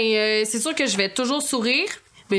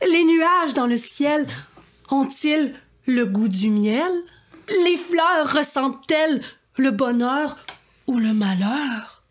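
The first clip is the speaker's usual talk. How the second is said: grand poetic questions; 3 semitones higher, slower than usual. Acted. Asks lofty poetic questions.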